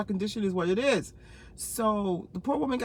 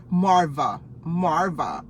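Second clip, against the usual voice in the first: laughing; 5 semitones lower, 4 dB louder, much slower than usual. Real, not acted. Laughing hard at friend's joke.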